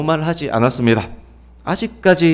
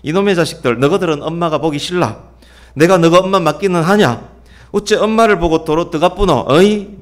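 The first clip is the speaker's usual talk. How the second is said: mother's angry scolding. Retold or imitated. Mother snapping at her kids for going inside, mock angry scold. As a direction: scold the kids like an irritated mom. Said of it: "짜증 폭발합니다".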